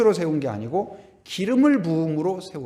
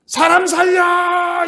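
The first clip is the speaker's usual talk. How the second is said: loud, slow, much higher cry for help; shouting for help; 10 dB louder, much slower than usual. Retold or imitated. A blind man calling for help, loud slow shout. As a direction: yell for rescue, stretched out. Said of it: "이렇게 하지 않고".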